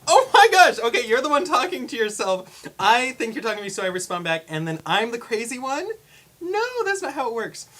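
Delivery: high, loud, indignant outburst; acted-out incredulous rant; exasperated disbelief. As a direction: protest in mock outrage, pitch way up. Retelling their exasperated reaction.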